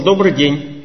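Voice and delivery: a hint of a rude coworker. Colleague greeting us at work, lightly mock rude. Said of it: "говорит очень грубым голосом".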